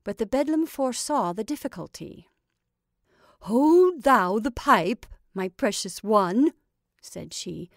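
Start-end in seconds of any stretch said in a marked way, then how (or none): 3.4-6.5 put-on slow, louder old witch coaxing; a hint of a doting witch, slow and loud.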